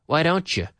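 "don't you" said as "don-cha"; casual blended "Why don't you"; reduced YOU. Shown as a demonstration. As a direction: weaken "you" to "ya", linked to "don't". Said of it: "the you often becomes ya".

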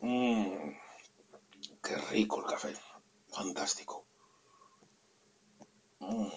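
sipping coffee between words; slurping hot coffee. Real, not acted. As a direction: sip and savor the coffee. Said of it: "voy a sorber un poquito de café".

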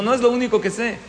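a hint of a boastful lady; proud woman.

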